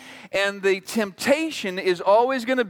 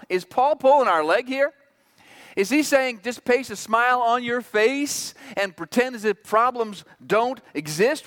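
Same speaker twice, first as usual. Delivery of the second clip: higher, incredulous questioning; mildly incredulous; 4 semitones higher than usual. Acted. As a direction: voice a skeptical new believer's doubt, pitched up. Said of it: "We are a little incredulous".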